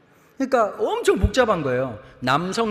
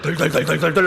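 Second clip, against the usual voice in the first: rattling noise; 5 semitones lower, 4 dB louder than usual. Retold or imitated. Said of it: "그 소리가 계속".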